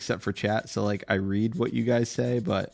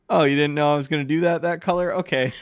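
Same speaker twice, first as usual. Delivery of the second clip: quick, higher, teasing voice as a cheeky tattoo artist; a tattooer springing a surprise on a client, sped up and a bit higher; mock tattoo artist; 4 semitones higher, faster than usual. Tattoo artist teasing a client in the mirror, mock innocent.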